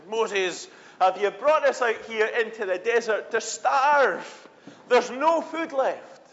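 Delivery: grumbling complaint. Retold or imitated. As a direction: complain to Moses as if starving. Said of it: "and they grumbled, and they said".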